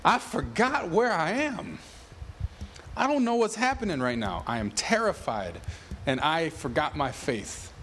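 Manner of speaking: a scared man who forgot where he is; frightened psalmist. Retold or imitated. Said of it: "He's saying".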